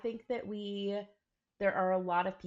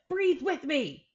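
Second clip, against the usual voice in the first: coaxing invitation; 9 semitones higher, 7 dB louder, slower than usual. Retold or imitated. Mom retells coaching son to breathe.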